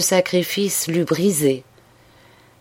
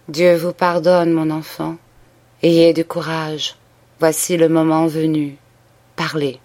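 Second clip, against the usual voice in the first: gentle priest voice. Acted. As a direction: soothe her gently, no push. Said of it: "d'une voix douce".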